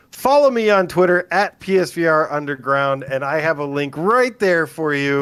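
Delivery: lightly performed pitch, pushed up at the start; promo plug. Acted. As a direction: deliver it like a host's social media plug. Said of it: "what you're supposed to say, Brian, is".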